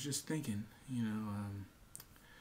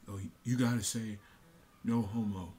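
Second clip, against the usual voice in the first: mock peer voice. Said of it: "language with it and say".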